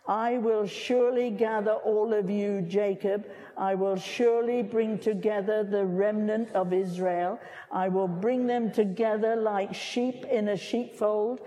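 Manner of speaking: scripture reading. Acted. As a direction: read it out to the congregation, deliberate. Reads scripture aloud to congregation.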